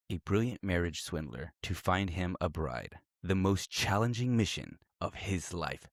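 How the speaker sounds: movie trailer voice. Acted. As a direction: read it like a dramatic movie trailer. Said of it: "Let me put on my, my movie voice".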